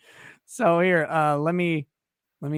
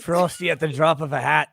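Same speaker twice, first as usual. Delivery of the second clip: put-on Scottish accent. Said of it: "You need to say it in your Scottish accent".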